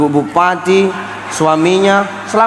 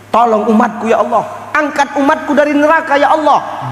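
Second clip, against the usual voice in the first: pleading prayer; 6 semitones higher than usual. Retold or imitated. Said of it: "Menangis di bawah aras, berdoa".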